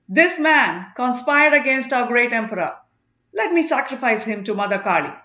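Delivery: a fanatic justifying the killing; lightly voiced zealot about to strike; vengeful zealot. Marapan before striking.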